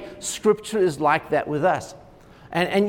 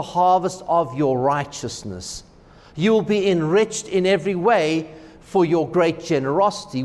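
scripture reading. Acted. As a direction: read the verses with weight, unhurried. Reads scripture aloud.

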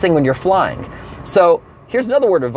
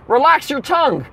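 stewardess voice; 7 semitones higher than usual. Retold or imitated. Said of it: "she says".

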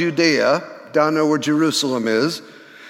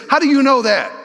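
stunned question; 8 semitones higher, 4 dB louder, faster than usual. Retold or imitated. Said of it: "what she's really saying is".

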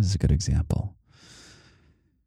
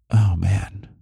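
ordinary talk

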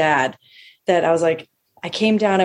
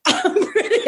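laughing higher boast; 12 semitones higher than usual. Pretend. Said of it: "I used to dress up like Muhammad Ali".

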